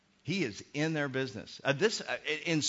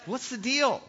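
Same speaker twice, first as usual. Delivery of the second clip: puzzled; 10 semitones higher, 4 dB louder, slower than usual. Retold or imitated. Acting puzzled Jesus.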